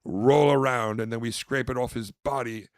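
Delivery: mock-grand sales spiel; pretend caviar connoisseur. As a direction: present it showily, landing loud on the last word.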